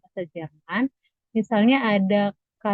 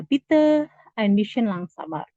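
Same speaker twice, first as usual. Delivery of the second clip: model phrase again; slower than usual. Shown as a demonstration.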